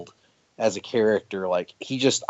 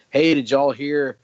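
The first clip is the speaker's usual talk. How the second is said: put-on Southern accent; 2 semitones higher, 4 dB louder than usual. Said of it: "he's got a real thick Southern accent".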